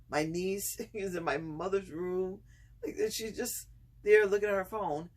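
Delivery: barely holding back real laughter; laughing while telling. Real, not acted. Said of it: "I'm laughing uncontrollably".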